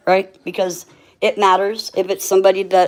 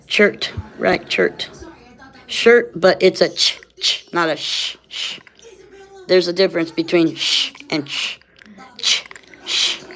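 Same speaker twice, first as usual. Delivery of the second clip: lisping through missing teeth; missing front teeth. Real, not acted. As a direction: talk with gaps in your teeth. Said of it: "my teeth are missing".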